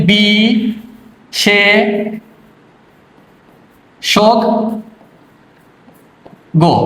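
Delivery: বি সে শোক গো with long pauses; syllable by syllable. Shown as a demonstration. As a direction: split বিশেষজ্ঞ into slow syllables. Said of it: "প্রমিত উচ্চারণ হবে". (অক্ষর ভেঙে ধীরে ধীরে)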